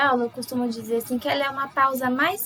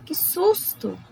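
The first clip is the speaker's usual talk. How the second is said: higher, startled cry of fright; startled exclamation; 7 semitones higher, much slower than usual. Shown as a demonstration. Teacher demonstrating exclamation to students, startled. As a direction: jump at a sudden scare. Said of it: "Mais forte, a voz até muda".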